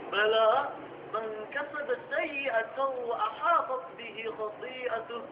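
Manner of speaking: slow, measured Arabic verse recitation; Quran recitation. Acted. Preacher reciting the verse to the students, slow and solemn.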